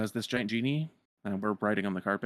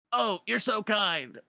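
slow, high sarcastic drawl; 11 semitones higher, slower than usual. Retold or imitated. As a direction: drip with mock sweetness. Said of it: "is like".

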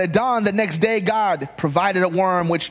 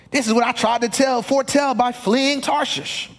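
a hint of a whining, higher Jonah; whiny Jonah; 5 semitones higher than usual. Pastor voicing Jonah as he hears him, lightly whining. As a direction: let Jonah complain to God. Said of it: "that's the way I hear Jonah".

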